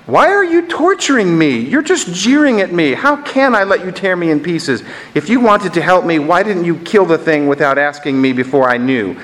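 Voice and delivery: high-pitched, tormented protest easing down; anguished accusation. Acted. Tortured ghost accusing the angel, high anguished protest. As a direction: start way up high, aggrieved, and gradually descend.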